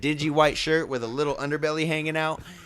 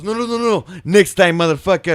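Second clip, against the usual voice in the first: mock yell; 5 semitones higher, 8 dB louder than usual. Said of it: "and the guy goes".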